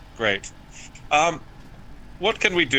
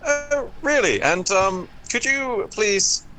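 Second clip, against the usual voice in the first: surprised; 7 semitones higher than usual. Acted. Character startled by the bounty.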